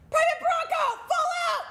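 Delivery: high, loud drill sergeant yell; shouted command. Retold or imitated. Drill sergeant calls out recruit before the platoon, shouting. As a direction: shout it across the whole platoon.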